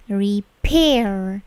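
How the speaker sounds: stretched "Repair" with gentle R ending; English final R. Shown as a demonstration. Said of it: "Bunyi R di ujung itu".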